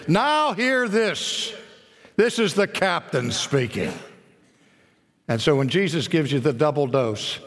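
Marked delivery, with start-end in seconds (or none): 0.1-3.9 loudspeaker announcement. Retold or imitated. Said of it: "over the loudspeaker".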